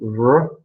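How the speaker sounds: a lone R edging towards "zh"; buzzed R sound. Shown as a demonstration. Teacher demonstrating the Chinese sound, R edging towards "zh". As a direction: sound out R by itself, close to "zh". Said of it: "it starts to sound a little bit like je".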